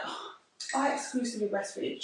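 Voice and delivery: understated mock self-important announcement; mock boasting. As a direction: imitate someone making a point of it. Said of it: "never turned to somebody and was like".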